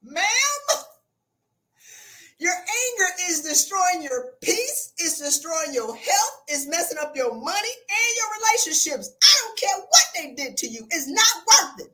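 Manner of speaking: sincere sisterly warning; pleading advice. Retold or imitated. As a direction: talk her down gently but firmly. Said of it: "All I'm doing is saying".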